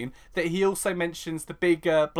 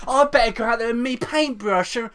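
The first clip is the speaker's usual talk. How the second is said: higher, louder put-on voice; mock disgruntled Ian; 7 semitones higher, 4 dB louder than usual. Host mimics Ian planning a rival mural, mock indignant. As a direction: grumble it as a hammed-up imitation. Continues mocking Ian's complaint.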